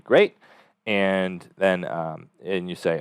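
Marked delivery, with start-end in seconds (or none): 0.0-0.3 upbeat great. Shown as a demonstration. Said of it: "then you just say".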